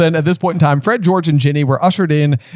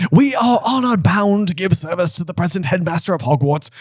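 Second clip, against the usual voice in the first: put-on frail old wizard; 4 semitones higher than usual. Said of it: "cried a frail-looking old wizard".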